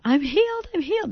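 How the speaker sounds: high, loud cry of joy; joyful shout. Retold or imitated. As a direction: shout it out, overjoyed. Son sprinting and shouting joy.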